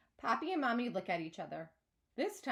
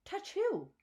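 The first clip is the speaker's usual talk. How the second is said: high puzzled question; baffled, not following; confused; 10 semitones higher than usual. A narrator's reading. Confused narrator, higher voice.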